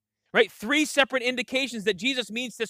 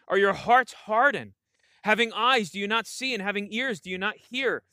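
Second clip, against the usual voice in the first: scripture reading; 2 semitones lower than usual. Acted. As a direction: read the passage aloud to the church. Pastor reads the Mark passage.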